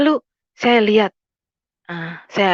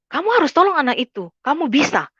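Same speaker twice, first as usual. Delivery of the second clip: higher-pitched, retold inner voice; insistent inner voice; 7 semitones higher than usual. Inner voice urging a teacher to help a pupil, insistent. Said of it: "ada suara hati saya bicara begini".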